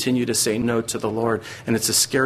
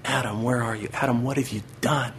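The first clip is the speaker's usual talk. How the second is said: softer, grieving father calling out; heartbroken father; 4 dB quieter than usual. Retold or imitated. Preacher voicing God as a heartbroken father calling Adam, soft sorrow. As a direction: call gently like a father whose heart is broken. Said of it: "as a heartbroken father".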